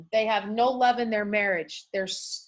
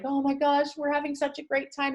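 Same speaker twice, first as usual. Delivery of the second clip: higher, held-up pitch, mildly gushing; delighted friend; 5 semitones higher than usual. Retold or imitated. Friend texting about his visit with his child, mildly delighted. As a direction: voice a friend's happy report, lightly.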